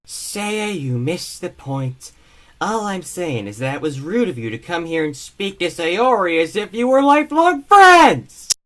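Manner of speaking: put-on indignant anime teen, rising to a shout; Jabu impression. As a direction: scold him, then blow up at the end. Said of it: "here is my imitation of Jabu's voice".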